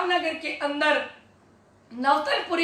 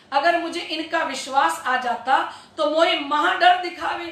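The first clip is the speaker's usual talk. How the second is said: ordinary delivery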